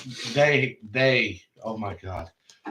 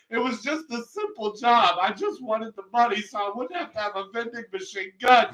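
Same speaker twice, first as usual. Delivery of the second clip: higher whiny plea to the cops; pleading suspect; 6 semitones higher than usual. Retold or imitated. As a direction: beg like a panicked crook. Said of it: "And he goes".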